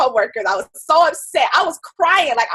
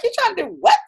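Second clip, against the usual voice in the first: incredulous spouse; 7 semitones higher, much faster than usual. Retold or imitated. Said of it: "your spouse is looking at you ultra sideways".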